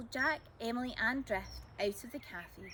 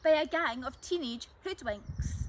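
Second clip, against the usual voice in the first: put-on mild indignant old lady; 3 semitones higher, 6 dB louder than usual. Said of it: "Missus Loveday squawked".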